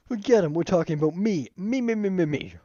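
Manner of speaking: high and loud, me me me; loud demanding. Acted. Hero-hungry rival shouting over the others, loud and high. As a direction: grab the spotlight with a loud, high whine. Self-absorbed character demands attention.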